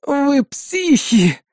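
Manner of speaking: high, very slow moaning outburst; groaning. Acted. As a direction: groan it out in despair. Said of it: "простонал Сайков".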